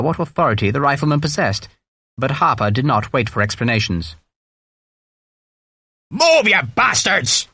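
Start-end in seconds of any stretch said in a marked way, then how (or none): 6.1-7.5 put-on high, drawn-out order in Donegal accent; Irish sergeant's angry command; Donegal-accented bellow. A narrator's reading. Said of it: "he bellowed in his Donegal accent".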